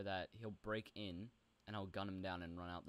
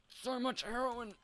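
much higher and louder, slow, stretched out; gleeful shriek; 9 dB louder, slower than usual. Pretend. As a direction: squeal it like a greedy goblin. Gloats over loot.

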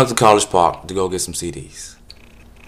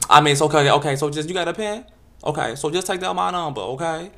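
higher, lilting; mock campy guy; 5 semitones higher than usual. Solicitor introducing himself, lilting and high. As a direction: sing the name out lightly.

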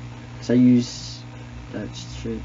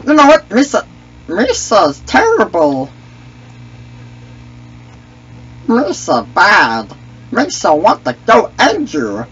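Misa voice. Acted. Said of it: "I could do this voice all day".

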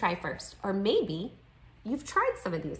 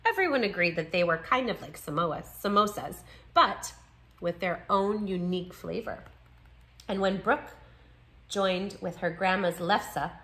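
measured picture-book read-aloud; story narration. A narrator's reading. Narrator reading a children's book about two friends, story narration. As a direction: read it clearly to young listeners.

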